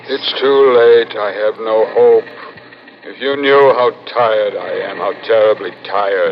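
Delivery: a man too worn out to hope; weary despair. Acted. Despairing living head.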